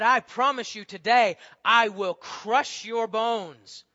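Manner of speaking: booming, slow giant taunt; mock him like a huge brute; barbarian. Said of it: "looks at David and he's insulted".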